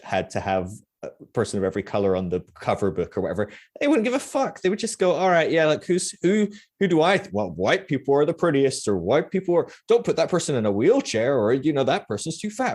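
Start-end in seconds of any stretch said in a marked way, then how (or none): 3.8-12.7 high, mocking voice of clueless leaders. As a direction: parody their thinking, pitched way up. Mocking white church leaders' thinking.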